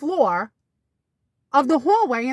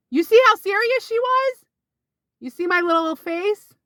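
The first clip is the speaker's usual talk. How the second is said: excited showing; 8 semitones higher than usual. Real, not acted. Vlogger to viewers about her mom's serious face, excited.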